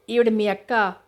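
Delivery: a light surprised question; mildly taken aback, rising at the end. Acted. The doctor learning Tulasi is her sister, mildly surprised. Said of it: "ఆశ్చర్యంగా అన్నాడు doctor".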